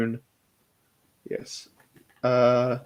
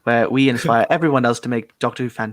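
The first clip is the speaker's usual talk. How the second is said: lightly put-on Northern English accent; mock channel intro in a Northern English accent; Nathan Carter. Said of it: "that's my impression of Nathan".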